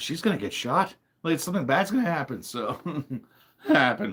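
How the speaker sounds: voice breaking mid-word on "happen". Recalling an old thought about a woman going Christmas shopping, voice cracking. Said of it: "Why did my voice crack like that?".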